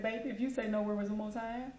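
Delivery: mildly put-on friendly voice; feigned friendliness as a warning. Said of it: "I got my friendly voice on".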